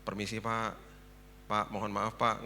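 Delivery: mild imitation of humble politeness; polite, deferential. Typical housekeeper phoning her employer, politely deferential. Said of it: "Ngomongnya kan biasa gitu".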